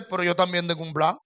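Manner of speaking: voice of God. Pretend. God calmly answers the believer with his own plan. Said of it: "Dios dice".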